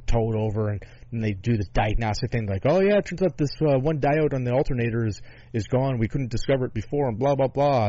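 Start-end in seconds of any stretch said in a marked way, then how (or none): 2.6-7.9 imitating mechanic. Mechanic quoted after diagnostic.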